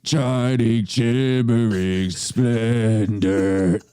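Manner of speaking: low, slow, breathy-free Vader croon; Darth Vader voice. Pretend. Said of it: "Darth Vader singing a song".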